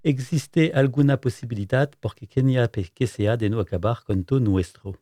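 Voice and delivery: Spanish accent. Real, not acted. Radio host reads a Spanish film title aloud, in a self-mocking Spanish accent. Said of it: "le lire avec mon superbe accent espagnol".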